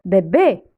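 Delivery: "bébé" with a closed é in both syllables. Shown as a demonstration. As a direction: keep the mouth nearly closed for each é in "bébé". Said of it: "on ferme la bouche".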